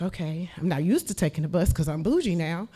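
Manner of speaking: high, loud, laughing mock-posh boast; laughing self-mockery. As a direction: laugh through a mock bougie brag. Mocking herself as bougie.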